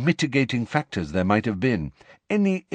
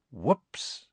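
softly voiced mock oops; 2 semitones higher, 7 dB quieter than usual. A narrator's reading. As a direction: let it slip out softly, gloating. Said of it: "he said softly".

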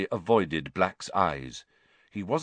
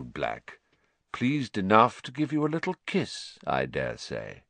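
silky menace. Acted. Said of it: "said Snape silkily".

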